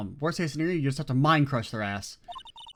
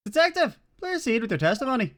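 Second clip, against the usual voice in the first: higher, brisk judge scolding; 10 semitones higher, 4 dB louder than usual. Acted. Judge scolding Edgeworth, higher and quick. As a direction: warn the prosecutor sharply, a bit high.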